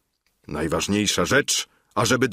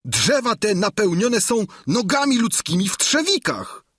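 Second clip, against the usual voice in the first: a scared squire reporting the horror; Sancho, still frightened; 11 semitones higher than usual. A narrator's reading. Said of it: "odrzekł Sancho". (wysoki, przestraszony głos giermka)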